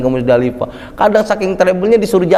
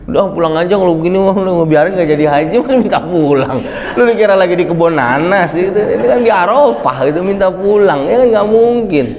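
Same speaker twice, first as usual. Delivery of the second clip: exasperated scolding; 3 dB louder than usual. Retold or imitated. Exasperated guide scolding pilgrim.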